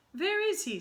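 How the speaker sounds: very high, loud sharp question; snapped. Acted. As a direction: snap it impatiently. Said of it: "snapped the Grand High Witch".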